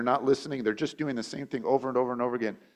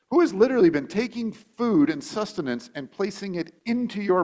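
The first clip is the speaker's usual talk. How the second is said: exasperated parent; 5 semitones higher than usual. Retold or imitated. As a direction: vent like a fed-up young parent. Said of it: "the thoughts that run through my mind".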